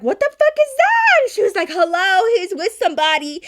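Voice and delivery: very high, acted-out squawk of disbelief; mock outraged shriek. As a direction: imitate a sister-in-law scandalized at the sight. Acts out sister-in-law's outraged reaction.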